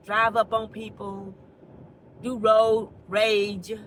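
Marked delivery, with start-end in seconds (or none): 2.2-3.7 slow emphatic. Real, not acted.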